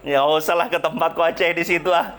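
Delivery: mock the embarrassed devil backing off; playing Satan. Pastor voices Satan avoiding the loving couple, lightly voiced grumble. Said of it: "Setan mah malu ah".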